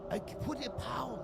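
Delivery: put-on Asian accent. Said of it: "have to have an Asian accent".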